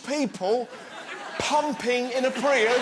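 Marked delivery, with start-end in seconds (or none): 1.4-2.8 punchline shout. Real, not acted.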